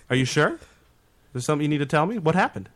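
coaxing questions that rise at the end; talking to a kid. Retold or imitated. President presses the denying driver, imitated talking-to-a-kid tone. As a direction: imitate guilting a child into confessing. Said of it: "like he's talking to a kid".

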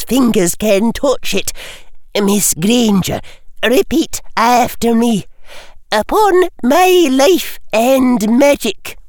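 firm Scottish schoolmistress; Scottish teacher. A narrator's reading. McGonagall directing the oath.

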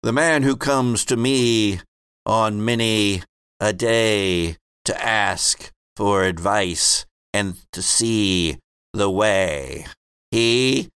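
slow, solemn prophetic chant; rhyming oracle. Acted. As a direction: intone the prophecy like a seer. GM voices a prophet in rhyme.

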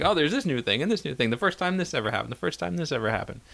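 excited. Retold or imitated. Mimicking the hype of the sixties.

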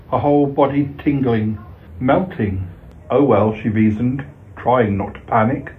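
measured storyteller reading aloud; story reading. A narrator's reading. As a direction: read it like a short bedtime tale. Reads a short story aloud.

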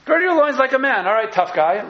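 high and loud, God taunting Job; God's booming challenge. Acted. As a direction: boom it out like God calling Job to fight. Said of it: "To Job".

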